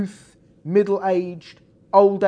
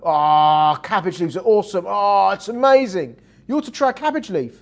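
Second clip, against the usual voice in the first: louder, gushing about cabbage leaves; excited caterpillar; 6 dB louder than usual. Acted. Caterpillar urging the butterfly to try cabbage, louder and gushing. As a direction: rave like a caterpillar in love with leaves.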